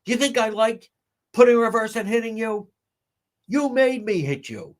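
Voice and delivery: high, indignant put-on voice; high mocking Karen voice; mock Karen Reed. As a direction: play her as a self-pitying abuser. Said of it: "That was her Karen Reed".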